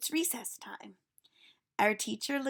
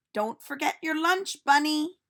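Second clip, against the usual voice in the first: put-on a cheerful teacher calling out to children; silly teacher voice; 6 semitones higher, 7 dB louder than usual. Teacher reminds.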